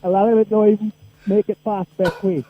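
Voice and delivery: laughing. Real, not acted. Caller laughing at own joke.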